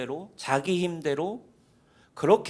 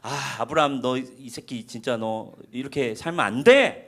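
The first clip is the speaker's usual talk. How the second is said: stern scolding; 6 semitones lower than usual. Retold or imitated. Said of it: "약간 분위기가 일 절 한국 성경으로".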